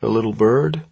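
lightly tipsy teasing question; arch, mildly drunken guess; Craig drunk. A narrator's reading. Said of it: "He was drunk for sure".

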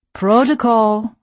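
slow, loud chiding. A narrator's reading. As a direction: scold him with one word. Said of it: "I chided".

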